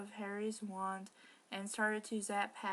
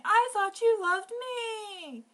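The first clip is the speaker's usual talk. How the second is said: mock crying; 12 semitones higher, 10 dB louder, slower than usual. Hermione heartbroken.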